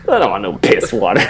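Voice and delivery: quick, offhand mock disdain; mock high and mighty. Guest snubbing the nice mom's beer, quick mock disdain. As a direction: toss off the refusal fast and dismissively. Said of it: "all high and mighty".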